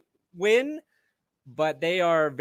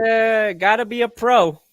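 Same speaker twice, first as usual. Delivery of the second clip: stern coach; 4 semitones higher, 8 dB louder than usual. Pretend. Mock coach scolding.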